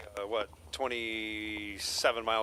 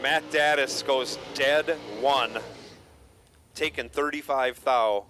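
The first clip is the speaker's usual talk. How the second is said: race announcer; 3 dB louder than usual. Acted. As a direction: call the result like a track announcer. Live drag race calling.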